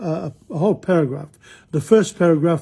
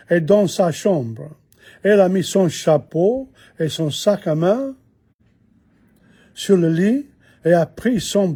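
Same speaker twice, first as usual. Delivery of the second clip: reading aloud in French. Shown as a demonstration. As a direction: read each phrase clearly for the students. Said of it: "Here we go".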